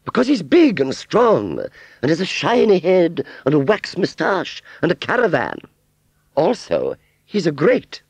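high, boastful gushing list; smitten fairground aunt. Acted. Aunt Sally boasting of strong man to Wurzel, smitten. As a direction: reel off his charms, voice very high.

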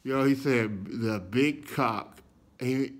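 ordinary talk, nothing marked

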